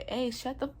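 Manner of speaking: mild mock yell from a bystander; retold yell. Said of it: "one of them yelled at the car".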